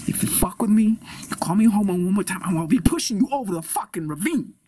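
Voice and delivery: worked-up warning, quick in the middle; threatening. Acted. Man warning his taunting friend, threatening. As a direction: threaten him, pushing harder as it goes. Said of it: "nice and threatening".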